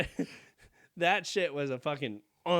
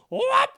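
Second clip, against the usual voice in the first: mock battle cry; 11 dB louder than usual. Child swinging tampon at mom.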